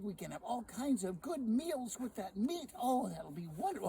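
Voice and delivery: wife cheerfully approving the pig. Acted. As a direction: happily talk the trade into a good one. Sally cheerfully approves each trade.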